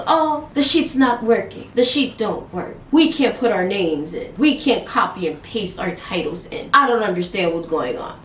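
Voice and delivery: mock whiny complaint. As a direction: whine like a confused coworker. Imitating the Indian team complaining.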